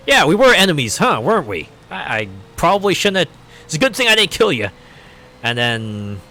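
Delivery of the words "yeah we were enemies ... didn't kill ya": higher, louder mock awkward villain; a playfully sheepish near-apology; Miller quote. Miller to the hero, hammed-up awkward. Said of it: "the Miller just like".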